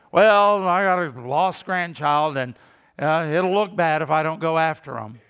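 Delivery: loud, grudging "it'll look bad" excuse; mock grudging excuse. Mock grandparent caught in the woods, loud and grudging. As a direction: bark out a lame excuse.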